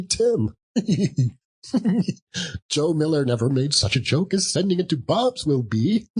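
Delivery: put-on old man chuckling mischievously; chuckling Scrooge. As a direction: giggle at his own secret joke. Scrooge gleeful plotting.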